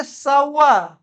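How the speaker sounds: शावर slowly as "SAU-wa", final r dropped; correct pronunciation. Shown as a demonstration. Teacher models the reading, शावर slowly with no final r. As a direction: say शावर without the r. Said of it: "इसको हम पढ़ेंगे".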